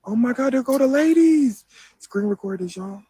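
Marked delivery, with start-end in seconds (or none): 0.0-1.6 excited. Real, not acted. Excited spotting the girls.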